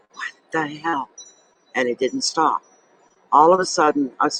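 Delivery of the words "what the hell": high, soft startled gasp of a question; retelling the shock, pitched way up. Retold or imitated. Woman retelling sudden chest pain, startled. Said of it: "and I went".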